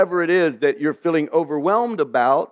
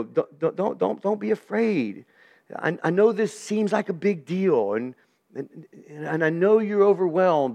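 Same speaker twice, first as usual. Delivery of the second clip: put-on tender, like to a little boy. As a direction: soothe him like a young grandson, a touch hushed. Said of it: "it's almost like God's talking to a little boy".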